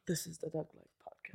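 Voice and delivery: put-on breathy, overdone British accent. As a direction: push the British accent too far. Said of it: "now you're doing it too hard".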